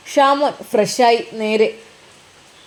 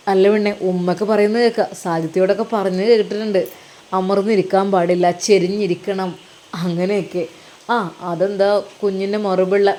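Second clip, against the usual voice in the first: lightly voiced husband, a little lower; husband character; 6 semitones lower than usual. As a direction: talk as a husband chatting to his wife.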